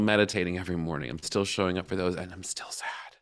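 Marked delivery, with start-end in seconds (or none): 2.2-3.2 hushed sad admission. Retold or imitated. Doing her practices and still sad, hushed confession. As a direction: drop to a near whisper.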